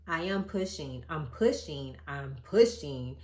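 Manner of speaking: building from firm to loud, slowing at the end; insistent pushing. Retold or imitated. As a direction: insist harder each time you say it. Retold insisting to nurses in labour.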